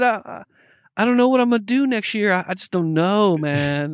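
mock the quarterback's whining; imitating a whiny star; whiny Aaron Rodgers. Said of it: "That's what he said this week".

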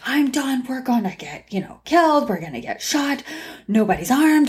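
high, understated mock alarm; retold alarmed protest. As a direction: mimic her panic without raising volume. Retelling work mom's scared protest.

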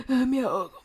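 mock breathless gasp; ahogada fingida. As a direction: pretend to be choking for air. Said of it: "O sea, no terminé". (ahogándose en broma)

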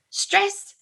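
put-on thick Ukrainian accent, high and drawn out. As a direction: say it like a Ukrainian dad. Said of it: "in this very thick Ukrainian accent".

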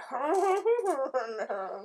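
wordless mumbled imitation speech; mock gibberish mumbling. Player mimicking guards whose language they don't speak, mumbling. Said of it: "start mumbling back. I'm like".

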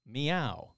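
a deliberately poor cat impression on "Meow"; unconvincing cat voice. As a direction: MEOW carefully enunciated as a human word. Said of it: "like a human carefully enunciating the word meow".

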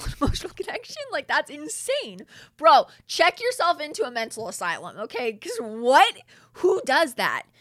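high, loud disbelief; incredulous outburst. Real, not acted. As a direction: rant at him as if he's lost his mind. Incredulous rant at the absent man.

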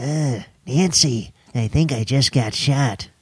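lightly imitating an old president; Ronald Reagan impression. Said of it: "Is that how he sounds?".

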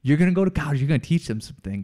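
lightly voiced Southern builder; Southern contractor. Contractor encouraging the student, light Southern accent. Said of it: "he has a southern accent".

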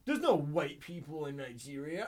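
mock Nigerian accent, high and loud, slow. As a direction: put on a Nigerian accent for the quote. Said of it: "In, in the accent".

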